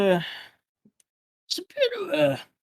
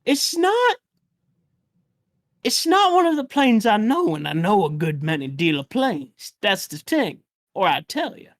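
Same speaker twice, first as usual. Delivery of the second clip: put-on old man voice. GM plays old man NPC.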